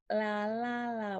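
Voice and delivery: tongue-tip L on each "la"; L sound. Shown as a demonstration. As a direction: chant "La, la, la" with still lips. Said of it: "not your lips".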